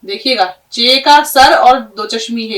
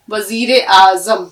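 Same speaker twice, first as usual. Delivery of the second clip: slow careful spelling-out; 2 semitones lower, slower than usual. Shown as a demonstration. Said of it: "एक लफ्ज सीख लिया आपने".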